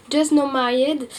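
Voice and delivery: manga title said in a hammed-up English accent; self-mocking English accent. Vlogger announcing her next manga to viewers, in a mock English accent. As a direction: put on a proud, slightly silly English accent for the title. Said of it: "toujours avec mon super accent anglais".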